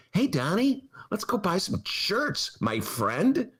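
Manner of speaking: high, eager buddy asking his pal out; bro voice. Retold or imitated. Imitating Don Jr. shopping buddy.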